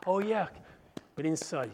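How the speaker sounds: usual speaking voice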